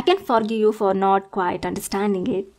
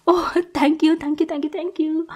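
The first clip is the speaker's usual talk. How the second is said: gushing thanks; 5 semitones higher than usual. Acted. Allowed into the bed.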